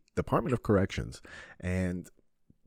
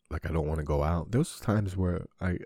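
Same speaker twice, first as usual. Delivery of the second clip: normal talking voice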